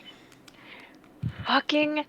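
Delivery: exasperated drag on the word; drawn-out frustration. Real, not acted. Venting to friends about a wasted drive, drawn out and frustrated.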